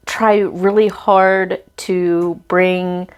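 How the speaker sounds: slow, halting, breath catching; catching breath midword. Real, not acted. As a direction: pause to catch a tearful breath. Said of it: "I'm sorry I'm crying on camera".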